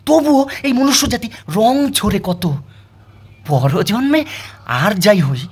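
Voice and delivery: verse recitation. Acted. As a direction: declaim it, then let the refrain sink. Recites a dog's lament in verse.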